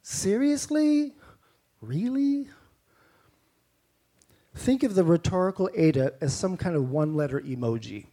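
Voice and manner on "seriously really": much higher, slow incredulous voice; mock disbelief. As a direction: act stunned by something absurd. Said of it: "We'd say".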